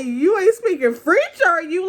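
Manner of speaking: high, giggling repeat of the teasing question; laughing. Real, not acted. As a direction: laugh through the tease. Repeats quote while laughing.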